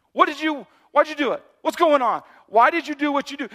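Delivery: mock accuser pressing in; pressing accusation. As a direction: corner them with guilt. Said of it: "pressing in and showing you guilt".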